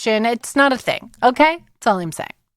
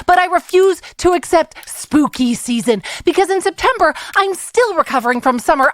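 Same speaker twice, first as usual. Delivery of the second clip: angry voicemail; 2 semitones higher than usual. Acted. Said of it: "a new segment I'm calling Angry Voicemail".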